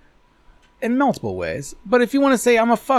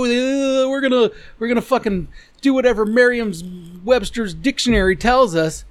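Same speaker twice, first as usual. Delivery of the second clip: higher-pitched mock of dictionary followers; mocking imitation; 4 semitones higher than usual. Mocking the rest of you who obey Merriam-Webster, mocking imitation. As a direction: drone it like a dutiful conformist.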